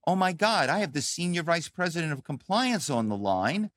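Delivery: lightly acted starstruck employee; awestruck analyst. Junior analyst reacting to a senior executive's call, mildly awestruck. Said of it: "So you're now going".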